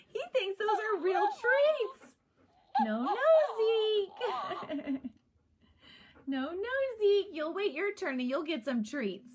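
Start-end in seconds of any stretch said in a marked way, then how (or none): 2.9-7.3 laughing scold. Real, not acted. Laughing telling dog no.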